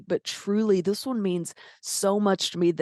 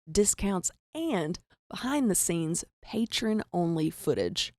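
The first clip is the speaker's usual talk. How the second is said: softer sponsor read, steady and even; 3 dB quieter than usual. Acted. Host pitching Patreon to listeners, soft ad read.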